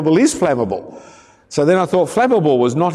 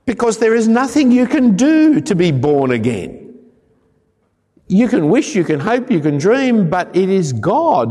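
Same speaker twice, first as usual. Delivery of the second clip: preaching emphasis; 3 semitones higher than usual. Acted. Preacher builds to climax.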